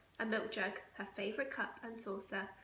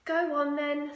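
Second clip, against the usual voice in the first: sighed; 4 semitones higher, 9 dB louder than usual. Acted. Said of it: "sighed Missus Large".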